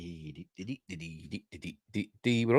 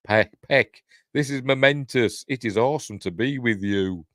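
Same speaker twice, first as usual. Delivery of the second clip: excited greeting; 2 semitones higher than usual. Pretend. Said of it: "Which is more like it".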